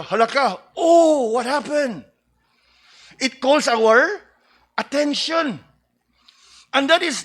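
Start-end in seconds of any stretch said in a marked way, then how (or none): 0.0-2.0 mock alarm. Shown as a demonstration. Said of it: "Nahulog ba ron o nadisgrasya".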